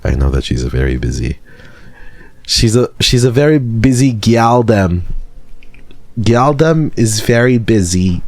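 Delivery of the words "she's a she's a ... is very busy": higher mock roadman slang; light put-on Toronto patois voice; playful higher roadman voice; Bradley voice. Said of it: "this Bradley voice".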